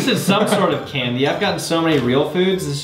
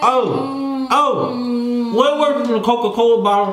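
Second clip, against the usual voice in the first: eating sour candy; 6 semitones higher, slower than usual. Real, not acted. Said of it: "You sound different when it's sour".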